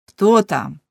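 loud call down the stairs. A narrator's reading. Young man waking and calling downstairs loudly. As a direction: shout out who is there. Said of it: "гукнув Леншпігель".

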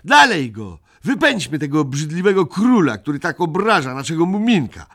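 high, loud call to charge; a child's excited battle cry; rallying cry. A narrator's reading. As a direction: rouse the gang to attack. Children urge an attack.

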